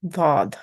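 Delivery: thick, heavy D opening "Dod"; heavy sound. Shown as a demonstration. Teacher shows what raising the tongue gives, heavy sound. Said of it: "you get the heavy sound".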